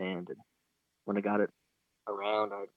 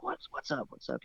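hushed, higher-pitched buddy on the phone; imitated whispering; 4 semitones higher, 9 dB quieter than usual. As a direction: answer softly, as if trying not to be heard. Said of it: "he was kinda whispering".

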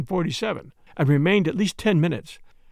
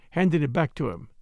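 ordinary delivery, nothing marked

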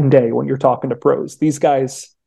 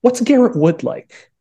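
much higher and slow, hammed-up fan question; mock eager fan; 10 semitones higher, slower than usual. An imagined fan at Lambeau asks the writer, mock eager and high. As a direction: play an eager fan asking, lightly mocking. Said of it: "And somebody's like".

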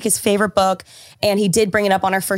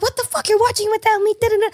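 high mock-indignant what the fuck, half joking; mock outrage; 12 semitones higher, faster than usual. Girlfriend playing fake betrayal at boyfriend, mock outrage. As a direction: pretend to be betrayed your boyfriend watched without you. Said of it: "I would've loved to be like".

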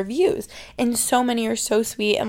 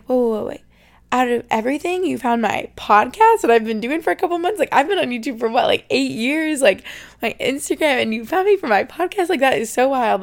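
retold amazement; 6 dB louder than usual. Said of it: "I was like".

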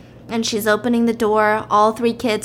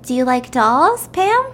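coaxing mother; 8 semitones higher, 4 dB louder than usual. Acted. Mother coaxing her kid.

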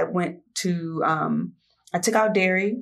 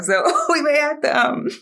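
laughing off nerves, a little louder; nervous laughter; 5 semitones higher, 4 dB louder than usual. Real, not acted. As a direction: giggle through the nerves. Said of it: "This is my nervous laughter right now".

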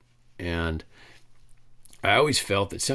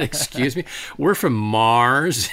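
mock insistence; 4 semitones higher, 5 dB louder, slower than usual. Driver insists to officer.

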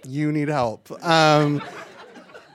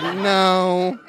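higher, louder, drawn-out objection; mock crowd protest; 7 semitones higher, 5 dB louder than usual. Comedian imitating everyone in the audience, mock protest.

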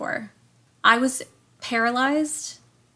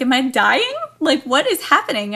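louder, higher panicked questions; retold panic; 4 semitones higher, 6 dB louder than usual. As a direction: relive the terror of feeling you're dying. Retelling panic of paralysis.

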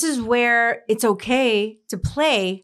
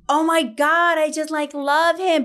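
swooning fan; 6 semitones higher than usual. Retold or imitated. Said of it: "women are like".

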